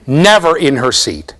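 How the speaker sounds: never stretched and punched, slow; stress on never. Shown as a demonstration. Professor stressing to class that Colleen is never seated. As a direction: lean hard on the word never, slowly. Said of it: "let me emphasize that".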